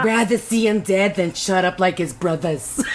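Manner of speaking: lightly put-on hillbilly auntie accent; mild mock hillbilly-Scottish accent. Shown as a demonstration. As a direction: read as a brogue-tinged Southern auntie. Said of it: "it's the auntie voice".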